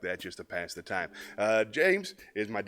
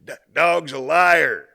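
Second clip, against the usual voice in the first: much louder slow repeat through amusement; laughing repeat; 6 semitones higher, 14 dB louder, much slower than usual. Real, not acted. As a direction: say it again, cracking up at your own joke.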